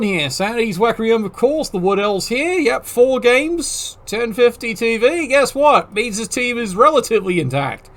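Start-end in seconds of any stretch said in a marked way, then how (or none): 5.9-7.9 "relatively" picked out from the rest; stress on "relatively". Real, not acted. Commentator hedging on a team's health, "relatively" stressed. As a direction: lean on "relatively" as the qualifying word. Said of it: "I stress the word relatively".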